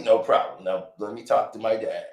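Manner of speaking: tired son pleading with his father; Drake scolding dad. Retold or imitated. Drake voiced.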